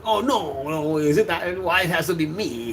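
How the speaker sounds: mock-whiny child pleading; whiny kid voice. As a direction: complain like a reluctant kid. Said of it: "He said".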